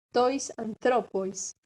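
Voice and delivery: very slow tois anthropois, stressed on THRO; accent moved along. Shown as a demonstration. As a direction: say anthropois as an-THRO-pois, drawn out. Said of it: "Va a correr el acento una sílaba".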